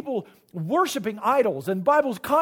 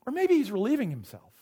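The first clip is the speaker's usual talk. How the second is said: lightly acted taunt; sly mock suggestion; Elijah; 3 semitones higher than usual. Elijah taunting the prophets of Baal, understated mockery. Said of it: "This is Elijah taunting them".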